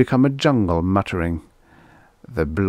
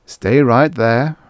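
slow, raised, firm reassurance; steady the child, taking it slowly; reassuring; 4 semitones higher, 6 dB louder, slower than usual. A narrator's reading. Robot tells lost girl to wait, reassuring. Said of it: "Robbie said reassuringly".

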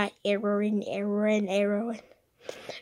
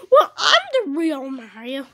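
louder, indignant insisting; insistent loud claim; 4 semitones higher, 8 dB louder than usual. Acted. Mario insisting to his copy that he is real, loud. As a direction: shout it to prove you're the real one.

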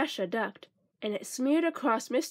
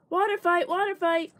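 higher, gleeful rallying chant; mock holler; 5 semitones higher than usual. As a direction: call everyone to the fight. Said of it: "laughed and hollered".

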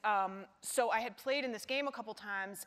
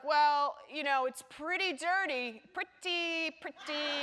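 a hint of Larry David, drawn out and higher on pretty, pretty; Larry David impression; 5 semitones higher, slower than usual. Actress imitating Larry David describing the dirty part, light mock voice. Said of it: "that's my only impression of him".

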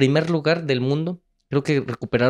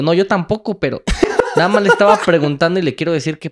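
words broken by giggles, half shouting; laughing while talking; 6 semitones higher, 6 dB louder than usual. Retold or imitated. Narrator laughs while quoting himself to the Korean mother. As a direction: laugh through the line.

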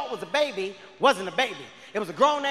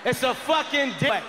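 calling out; 3 semitones higher, slower than usual. Retold or imitated. Calling the zoo excitedly.

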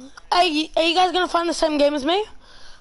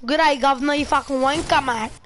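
hammed-up British slang accent; playful fake British accent for a guessing game; put-on British accent. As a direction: show off a mock British accent. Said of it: "What, what accent is this?".

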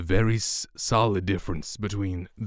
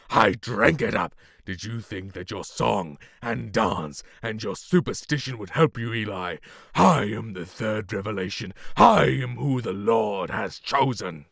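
acting a scene. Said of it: "and then acting".

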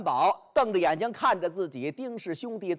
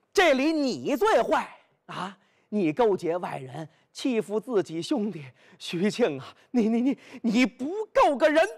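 cursing; 3 semitones higher than usual. Acted. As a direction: spit out the insult, tripping over 你. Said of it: "骂上了".

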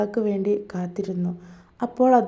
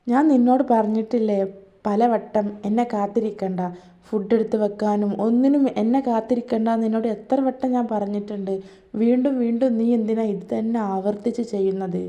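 mildly raised, irritated telling-off; harsh scolding. Acted. Husband harshly scolding his wife for waiting up, irritated. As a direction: scold her for waiting on you again. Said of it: "ഭയങ്കര രൂക്ഷമായ ഭാഷയിലൂടെയാണ്".

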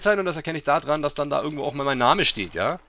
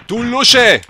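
mock insult; 8 semitones higher, 11 dB louder than usual. Insulting game character.

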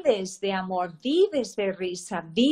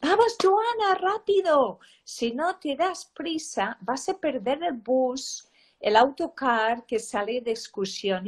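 mother yelling; 2 semitones higher than usual. Retold or imitated. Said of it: "yo le gritaba".

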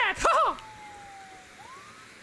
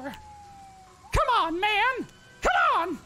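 mock falsetto plea; 2 semitones higher, much slower than usual. Mock plea over fallen Donald.

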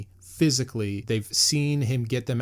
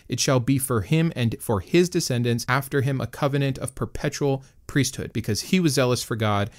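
measured, formal Bible reading; scripture reading. Acted. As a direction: read it out like solemn scripture. Reads scripture passage aloud.

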